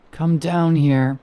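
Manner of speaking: slow, eerie rasp, hushed and far off; raspy whisper. A narrator's reading. Thing in the pit luring Peter down, slow eerie rasp. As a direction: lure him down slowly in a rasp. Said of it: "she said in a raspy whisper".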